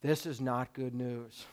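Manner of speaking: low, soft, deflated mutter; quiet dismay. Retold or imitated. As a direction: sink into quiet disappointment. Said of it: "and you're going".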